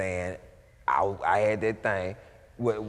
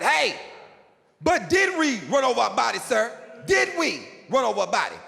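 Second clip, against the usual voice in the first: shouting back; 11 semitones higher, 4 dB louder than usual. Retold or imitated.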